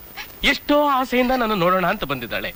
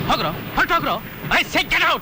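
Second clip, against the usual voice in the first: angry; 5 semitones higher than usual. Acted. Man ordering thugs out.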